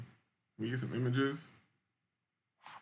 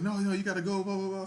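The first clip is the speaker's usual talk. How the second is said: mock airline staff; 7 semitones higher, faster than usual. Airport staff voiced in a story.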